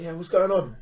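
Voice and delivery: mildly confrontational greeting; aggressively friendly. Retold or imitated. Robber leaning at the car window saying nice things, mildly aggressive. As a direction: imitate a stranger's pushy pleasantry. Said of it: "he's talking aggressively, but saying nice things".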